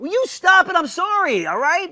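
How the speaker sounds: loud, fed-up snap at brothers; exasperated outburst. Acted. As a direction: shout him down in frustration.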